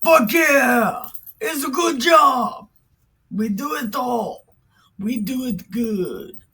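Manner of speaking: a crowd yelling hammed-up approval; cheering crowd. The people cheer on the contest with a mock rowdy crowd yell. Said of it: "all the people were like".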